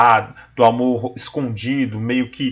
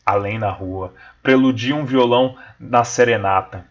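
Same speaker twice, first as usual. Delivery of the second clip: poem recital; 3 semitones lower than usual. Acted. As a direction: recite the sonnet with feeling. Teacher reads the sonnet aloud.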